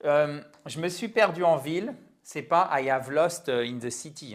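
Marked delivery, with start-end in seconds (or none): 2.7-4.3 learner's English with a French accent; caricatured French accent. Shown as a demonstration. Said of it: "mon accent français". (accent français un peu caricatural)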